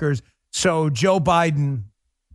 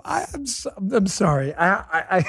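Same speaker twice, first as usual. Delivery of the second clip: apologizing through real laughter; helpless laughter; 5 semitones higher than usual. Real, not acted. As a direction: try to speak while cracking up, voice giving out. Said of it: "Stop laughing".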